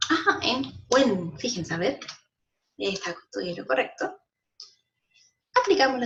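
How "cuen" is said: 'cuen' drawn out slowly; stressed syllable. Shown as a demonstration. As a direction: lean on 'cuen' and hold it. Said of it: "¿Y dónde cargo la voz?". ('cuen' alargado, con la voz cargada)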